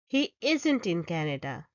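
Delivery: isn't stressed on the first syllable, IS-n't. Shown as a demonstration. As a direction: lean on the start of isn't. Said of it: "The stress is on the first syllable".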